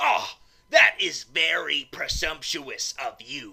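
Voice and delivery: hoarse, low, raspy, snide, snarky sarcasm. Asked whether they live with their mother, a character retorts in a raspy, snarky, sarcastic voice. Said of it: "that type of raspy, snarky, sarcastic voice".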